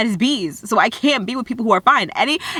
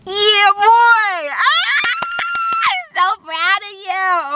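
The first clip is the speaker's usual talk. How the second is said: much higher shout of praise; hype cheer; 13 semitones higher, much slower than usual. Acted. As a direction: cheer like a proud hype coach. Cheering viewer on.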